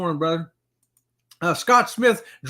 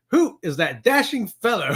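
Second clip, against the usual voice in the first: laughing. Real, not acted. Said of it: "A Dries shirt and a tie".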